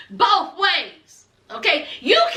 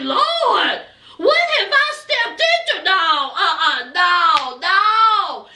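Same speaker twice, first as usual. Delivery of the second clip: appalled saleswoman; slower than usual. Retold or imitated. Saleswoman reacting to a quarrelling couple, appalled. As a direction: recoil from a mess, mock dismay.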